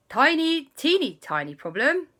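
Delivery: high, pointed, dainty delivery; awkward squeak. Acted. Uncle points out grandparents nearby, high teeny voice. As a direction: raise a snag in a teeny voice.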